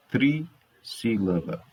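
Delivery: TRISSÍLABA broken after a held tri; emphatic term. Shown as a demonstration. Teacher concluding it is trissílaba, emphatic term. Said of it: "Três sílabas".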